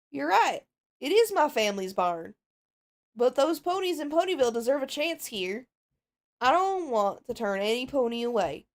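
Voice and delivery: a touch of Southern twang, earnest; Southern accent. Acted. The farm pony defends taking in survivors, mild Southern accent. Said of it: "you get Southern".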